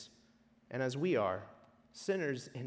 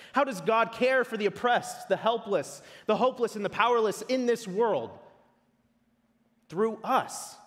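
higher-pitched rhetorical question; urgent preaching; 7 semitones higher, 5 dB louder than usual. Acted. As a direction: press the question on the congregation.

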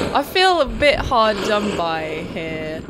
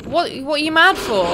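high loud protesting yell; shouting at a furious villager; panicked shout; 6 semitones higher, 6 dB louder than usual. Real, not acted. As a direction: yell at the angry enemy. Enemy attacks, player panics.

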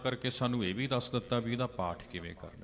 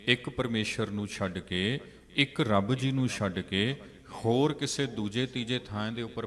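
fervent preaching. Acted. Preacher scolds the soul, building.

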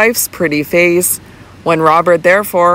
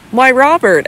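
exclaiming; 6 semitones higher than usual. A narrator's reading. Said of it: "exclaimed Sir Michael".

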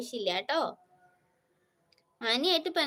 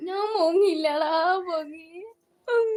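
mock whine; 5 semitones higher, 6 dB louder than usual. Mock crying over comments.

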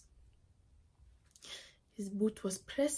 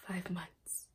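soft, low-voiced statement; quiet recollection; 3 semitones lower, 9 dB quieter than usual. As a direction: let it drop softly, almost to yourself. Survivor recalls length of captivity.

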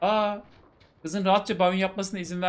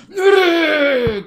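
sudden furious shout, much higher and louder; 11 semitones higher, 12 dB louder than usual. Acted. Savaş yelling at her as she tries to leave, furious shout. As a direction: bark the question at her as if to stop her. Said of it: "bağırarak ... diye bağırdı".

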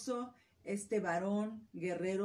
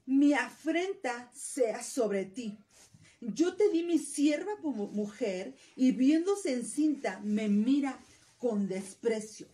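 slow, loud and accusing; indignant reproach; 6 dB louder, slower than usual. Acted. Sarai reproaching her husband Abraham, slow loud indignation. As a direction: hurl the blame at him, word by word.

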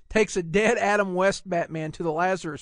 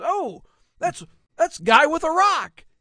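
high mock voice; 9 semitones higher, 7 dB louder than usual. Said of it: "He goes".

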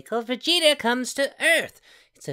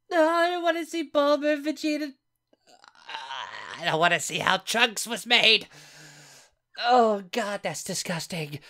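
nauseated horror. Real, not acted. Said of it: "I think I'm gonna vomit".

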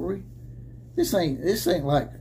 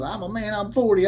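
mock quote; 5 semitones higher than usual. Quoting coach mockingly.

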